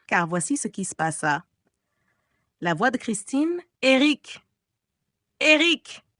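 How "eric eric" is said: loud, higher calling out; desperate call. Acted. Christine calling Eric in panic. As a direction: cry out his name for help.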